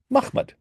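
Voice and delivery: Mahmud said slowly as two syllables, MAKH-mad; vowelless-script pronunciation. Shown as a demonstration. Lecturer showing how the bare letters read, Mahmud pronounced MAKH-mad. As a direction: say Mahmud with a throaty kh and no middle vowel. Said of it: "You would pronounce it".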